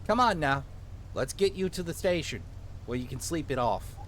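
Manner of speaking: put-on small-town cop with a light Minnesotan accent; lightly Minnesotan lawman taking charge; vaguely Minnesotan accent. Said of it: "give him a vaguely Minnesotan accent".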